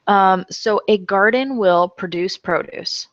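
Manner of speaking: produce said as verb then noun; pro-DUCE then PRO-duce, the verb then the noun; homograph demo. Shown as a demonstration. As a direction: read it slowly, shifting the stress. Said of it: "so when I say that".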